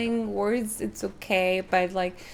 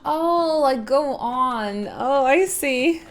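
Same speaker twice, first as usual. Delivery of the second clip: mock Irish go on; 4 semitones higher, 6 dB louder, much slower than usual. Playing with Irish go on.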